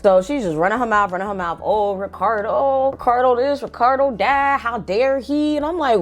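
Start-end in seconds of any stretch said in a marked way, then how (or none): 1.6-5.6 lightly voiced ranting mom, slow start; mocking mom rant. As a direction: imitate mom going off. Mom ranting about Ricardo.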